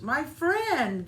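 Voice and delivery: high, loud joyful reply; gleeful exclamation. Acted. Little Fox greeting the sprout, gleeful shout. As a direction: shout it back with delight. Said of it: "they each exclaimed with glee".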